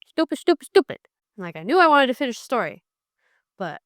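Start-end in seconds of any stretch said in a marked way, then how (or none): 0.1-1.0 loud, higher repeated groan of frustration; a reader fed up with the plot, loudly exasperated; frustrated outburst. Retold or imitated. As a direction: vent at the book. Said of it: "And I was like".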